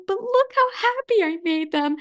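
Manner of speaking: imitated grandma, pitched high in protest; pleading grandma. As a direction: plead your case in a high voice. Voices grandma defending herself to parents.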